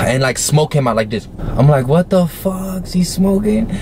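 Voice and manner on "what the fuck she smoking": high-pitched mock disbelief; retold amazement. Teen seeing smoke come out, acted high-pitched surprise. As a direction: act out stunned surprise, pitched right up. Retells his shock at the smoke.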